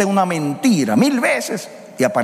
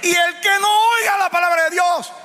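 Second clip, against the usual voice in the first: preaching at full force. Acted. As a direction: thunder the warning over the church. Preacher warns the congregation.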